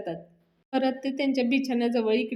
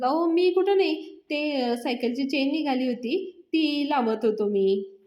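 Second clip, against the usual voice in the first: lying; 3 semitones higher, slower than usual. Acted. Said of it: "अण्णा अवनीशी खोटं बोलायला लागतात".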